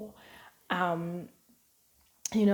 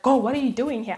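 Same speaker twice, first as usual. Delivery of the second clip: mock annoyed friend; 5 semitones higher, 6 dB louder than usual. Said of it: "she's like".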